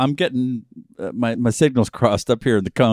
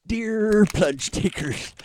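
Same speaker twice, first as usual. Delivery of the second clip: slow, high, mocking formal address; mocking letter voice; 8 semitones higher, 5 dB quieter, much slower than usual. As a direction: read it like a pompous letter opening. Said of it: "I sense a tinge of mockery in your voice".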